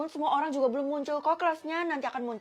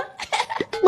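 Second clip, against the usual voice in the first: quick, high unvoiced panting; breathless panting; 9 semitones higher than usual. Daughter runs home to mother, breathless panting. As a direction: pant hard after running away. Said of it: "kenapa kamu terengah-engah gitu?".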